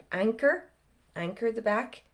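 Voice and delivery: usual speaking voice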